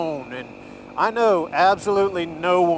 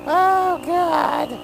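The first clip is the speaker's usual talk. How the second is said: high, loud, drawn out after laughter; real helpless exclamation while cracking up; laughing; 14 semitones higher, 5 dB louder than usual. Real, not acted. Recovering from laughing fit.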